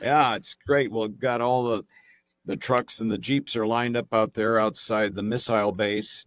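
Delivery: put-on British actor's slightly-off American accent; imitated fake American accent. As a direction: play an American, not quite convincingly. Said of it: "actor that's playing the American".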